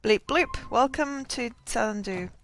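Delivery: bright robotic notification voice. Pretend. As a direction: say it like a cheery system beep. Player mimics a game notification.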